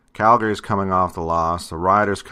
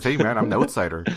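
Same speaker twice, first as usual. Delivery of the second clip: Bob and Doug McKenzie; 2 semitones higher, faster than usual. Retold or imitated. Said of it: "I don't know what accent was that".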